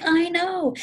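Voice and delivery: hammed-up childish shriek; shrieking reply. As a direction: shout back in shared dismay. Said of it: "And I'm like".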